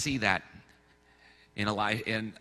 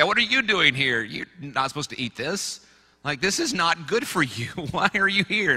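mock scolding; 4 semitones higher than usual. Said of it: "he might say".

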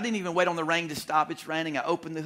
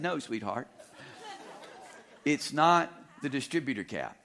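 laughing reply. Retold or imitated. Husband answers wife, laughing.

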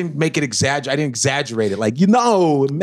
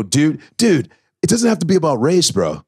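white bro voice. Shown as a demonstration. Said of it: "I do a white voice".

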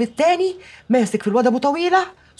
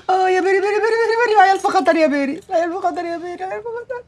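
panicked wailing; 5 semitones higher, faster than usual. Acted. Mother panics, wails to Bery.

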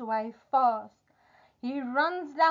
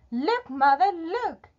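high, eager call to mother; excited boy; 7 semitones higher, 4 dB louder than usual. Acted. Jack brings gold home to mother, excited. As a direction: show off the treasure, pitch jumping up.

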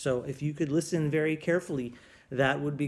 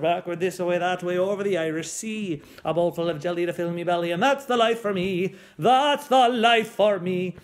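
lightly growled singsong pirate; 5 dB louder than usual. Acted. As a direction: belt it like a jolly pirate. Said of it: "that crazy pirate voice".

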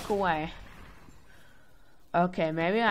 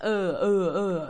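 pained grunts; 4 dB louder, slower than usual. Retold or imitated. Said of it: "I had, like".

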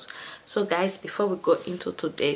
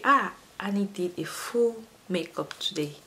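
whispered viewer voice. Pretend. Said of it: "you guys will be wondering".

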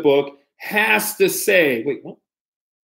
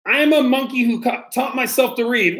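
lightly higher monkey voice; 4 semitones higher, faster than usual. Acted. Reader voices the monkey line for the kids, higher pitched. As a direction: read it like a silly monkey. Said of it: "my monkey mouth and my monkey voice".

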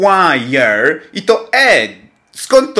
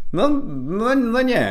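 rising denial; 8 semitones higher, slower than usual. Real, not acted.

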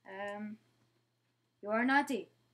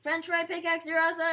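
loud, high cheer; excited shout; 5 semitones higher, 9 dB louder, faster than usual. Real, not acted. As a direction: yell it out in delight. Cheering the new pickaxe.

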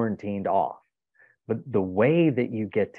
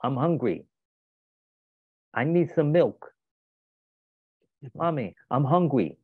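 put-on higher, whiny little child; small child voice; 5 semitones higher than usual. Toddler asking his mom for milk, high and whiny. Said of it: "three and a half year old".

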